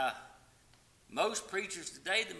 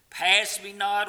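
slow, high cry of Pass me not; loud plea; 5 semitones higher, 9 dB louder, slower than usual. Acted. Preacher repeating the hymn cry.

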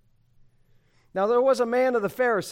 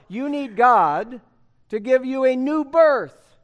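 preaching at full force; 5 semitones higher, 9 dB louder, slower than usual. Acted. Climax of sermon point.

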